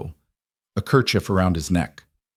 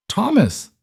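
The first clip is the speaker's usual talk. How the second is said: shrieked name, far higher; desperate scream; 14 semitones higher than usual. Acted. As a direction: scream his name in terror. Mother screams at unresponsive son.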